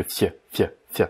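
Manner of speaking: fie said as a voiceless f sound, the ending of морковь; final sound of морковь. Shown as a demonstration. Teacher isolating the final f of морковь. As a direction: clip the fie sharply like an f. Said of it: "on prononce bien à la fin le".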